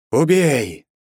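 high loud command to kill; the voice takes over completely; eerie shouted command; commanding cry. A narrator's reading. Final chant, she is gone.

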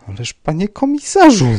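high, loud, falling appeal; despairing plea. A narrator's reading. Rybka appealing to the commissioner, despairing plea. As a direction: plead in exasperated despair. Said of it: "załamał ręce pan Rybka".

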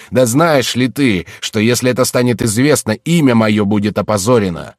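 громкий, нарастающий гнев, к концу выше; отчитай дочь, распаляясь всё сильнее; гневная отповедь отца. Acted. (разгневанный отец громко бранит дочь)

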